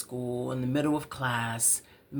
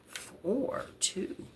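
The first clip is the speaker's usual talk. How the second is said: hushed countdown; 8 dB quieter, much slower than usual. Pretend.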